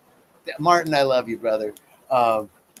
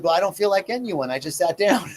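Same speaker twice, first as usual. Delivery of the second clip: put-on higher, a light touch of a blunt little kid; unedited five-year-old; 4 semitones higher than usual. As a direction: say it like a stubborn five-year-old who won't budge. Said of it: "unedited five-year-old".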